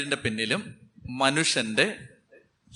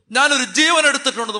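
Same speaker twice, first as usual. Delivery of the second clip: anguished confession; 9 semitones higher, 4 dB louder, faster than usual. Retold or imitated. Voicing a weeping murderer.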